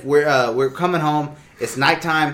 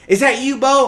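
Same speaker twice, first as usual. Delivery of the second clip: put-on higher old-woman voice, a touch unsure; old neighbor asking the narrator if he is Bo, higher voice; questioning old lady; 10 semitones higher than usual. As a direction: ask like a puzzled old lady.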